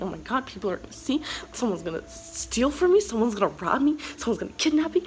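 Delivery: spiral into dramatic worry; mock panic. Telling viewers her fear of being robbed, mock panic. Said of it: "I am so dramatic".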